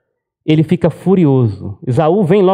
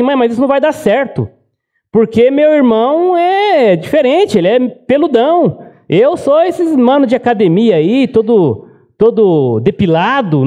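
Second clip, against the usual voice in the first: pleading son; 5 semitones higher than usual. Retold or imitated.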